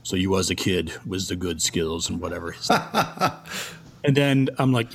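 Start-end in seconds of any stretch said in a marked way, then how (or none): 0.0-2.5 put-on half-hearted German accent; Hans's German accent. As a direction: imitate a German accent, admittedly badly. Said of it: "I can't do the German accent".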